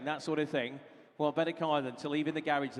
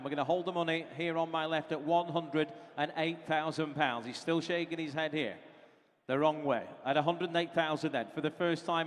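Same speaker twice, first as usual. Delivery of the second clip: auctioneer. Acted. Auctioneer calling bids.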